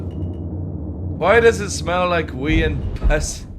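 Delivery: very slow, drawn-out movie quote; slow quoted film line. Retold or imitated. Recalling a film scene, drawn-out slow quote. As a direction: stretch every word of the line out. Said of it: "what movie is that from".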